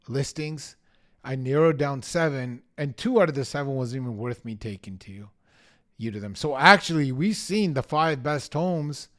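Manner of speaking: confident, assured pitch to clients; a bold agent laying out his homework. Shown as a demonstration. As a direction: sell it boldly, no hedging. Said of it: "this is exactly how I want you to say it".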